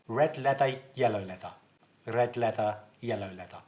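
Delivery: crisp "Red leather, yellow leather"; warm-up tongue twister. Shown as a demonstration. Drama teacher leading students in a vocal warm-up, articulated drill. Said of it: "warm up our voices".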